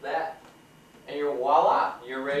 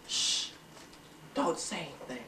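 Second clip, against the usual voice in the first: hushed aside; 10 dB quieter than usual. Real, not acted. Aside hushing camera.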